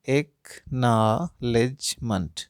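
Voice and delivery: एक्नॉलेजमेंट said slowly, each syllable set apart for clapping; slow syllable split. Shown as a demonstration. Teacher repeats the word for parents, slow and split. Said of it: "कितने बार ताली बज रहा है".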